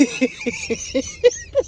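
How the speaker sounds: very high-pitched burst of laughter; laughing fit. Real, not acted. Recapper loses it over Karen's kids, laughing. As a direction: collapse into real laughter. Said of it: "I'm sorry".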